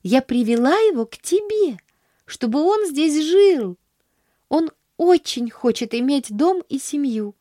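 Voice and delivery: put-on high, eager girlish voice; a bright child pleading her case; eager little girl. Girl presenting a stray boy to her aunt, eager. Pollyanna's voice in read story.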